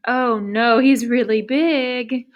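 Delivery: mock worried elephant. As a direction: gasp at the size, half in play. Elephant's frightened thought.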